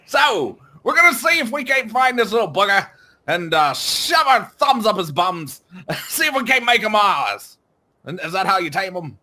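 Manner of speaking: light Aussie bloke voice, laughing between lines; a hint of Aussie larrikin; mock Australian accent. Host keeps up a light Australian accent for the taming plan. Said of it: "I can't do this accent anymore".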